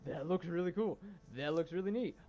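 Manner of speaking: retold hype, swooping up in pitch; excited fan reaction. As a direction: imitate an excited fan watching a trailer. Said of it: "I was like".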